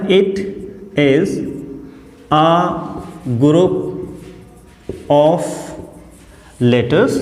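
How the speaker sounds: slow, word-by-word dictation; dictation pace. Shown as a demonstration. Teacher dictating the definition word by word. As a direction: pause after every word so they can write. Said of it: "तो ये क्या होता है?".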